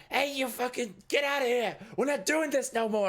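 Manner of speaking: high, loud angry scream; screaming at them. Acted. Eddie chases the drug cooks out of his back room, screaming. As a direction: scream to drive everyone out of the room. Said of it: "he just starts screaming at all of them".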